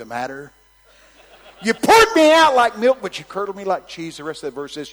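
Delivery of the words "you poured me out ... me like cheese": laughing. Acted. Repeats verse laughing.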